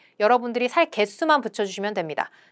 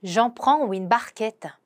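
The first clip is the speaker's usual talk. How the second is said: very slow, careful French; slow pronunciation model; slow demo; much slower than usual. Shown as a demonstration. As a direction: lay out each syllable slowly for learners. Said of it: "요것도 가겠습니다".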